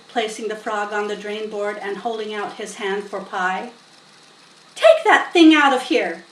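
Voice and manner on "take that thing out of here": loud, firm farm wife; stern scolding. A narrator's reading. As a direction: order the frog out. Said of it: "said Missus Zuckerman".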